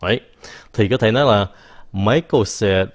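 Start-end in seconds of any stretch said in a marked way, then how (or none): 1.9-2.9 slow, careful model sentence. Shown as a demonstration. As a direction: spell it out slowly for learners. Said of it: "Gọn hơn không?". (câu mẫu đọc chậm rõ ràng)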